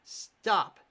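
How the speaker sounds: loud cry of stop; desperate shout. Acted. Ashley screams for the attack to stop, desperate shout. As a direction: shout it to halt them.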